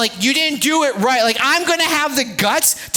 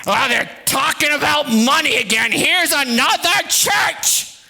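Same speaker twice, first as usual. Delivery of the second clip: grumbling mad giver. Acted. Mad giver griping that church is asking for money. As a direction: play a fed-up churchgoer. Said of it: "If I'm a mad giver".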